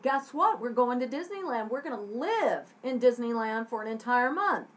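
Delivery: bubbling with happy news; excited announcement. Acted. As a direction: break big news eagerly. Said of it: "is the person excited?".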